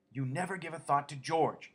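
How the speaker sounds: Lenny's high voice scolding as his aunt; Aunt Clara in Lenny's voice. A narrator's reading. Aunt Clara nags Lenny, in his own high voice. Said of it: "she went on in Lenny's voice".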